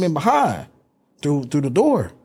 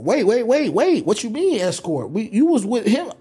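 confused disbelief; 7 semitones higher than usual. Retold or imitated. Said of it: "So I said".

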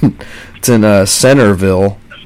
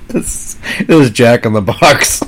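laughing; 2 semitones higher than usual. Real, not acted. Laughing at the review.

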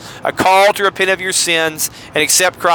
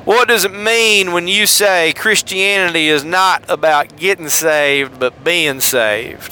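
put-on Mississippi accent; slower than usual. Shown as a demonstration. Host reads a listener's question for fun, Mississippi accent. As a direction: read it with a drawn-out Mississippi accent. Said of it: "read it in a Mississippi accent".

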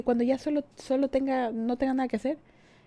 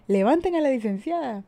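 mock call out; 4 semitones higher, 5 dB louder than usual. Imagined crowd lifting drunk licenciada.

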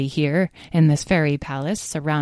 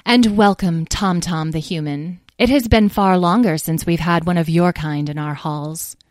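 clear and sharp. Acted. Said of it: "spoke in a voice so clear and sharp".

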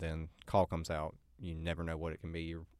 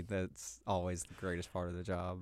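dry deadpan sarcasm; sarcastic. Real, not acted. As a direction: say it drily, meaning the opposite.

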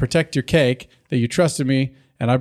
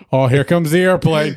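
airplane spoon game; 2 semitones higher, 4 dB louder than usual. Pretend. Acts spoon-feeding game.

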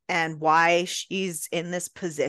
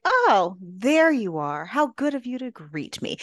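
haughty duchess voice; 4 semitones higher than usual. Retold or imitated. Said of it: "she's basically like".

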